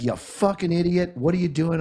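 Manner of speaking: mock angry dad; dad's angry rant. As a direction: scold like a fed-up father. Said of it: "He was like".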